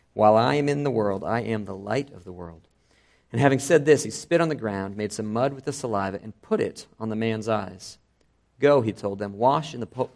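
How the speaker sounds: reading the passage aloud with voiced characters; preacher reading John chapter nine aloud to his standing congregation, dramatically; dramatic scripture reading. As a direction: tell the Gospel story to the congregation, acting the speakers.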